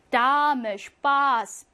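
slow 슈파스 with a long a; German Spaß said slowly; long vowel demo. Shown as a demonstration. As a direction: draw out the a in 슈파스. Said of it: "반 하고 길게 발음하죠".

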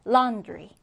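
"laundry" with the stress on LAUN; stress on first syllable. Shown as a demonstration. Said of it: "첫 음절에 강세를 두고". ("laundry" 첫 음절에 강세)

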